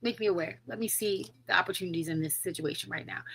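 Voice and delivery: soft, quick murmured prayer; hushed, unforced plea; little prayer. Retold or imitated. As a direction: pray it privately under the breath. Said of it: "pray that little prayer".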